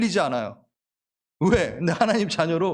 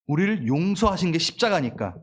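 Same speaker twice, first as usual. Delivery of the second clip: usual speaking voice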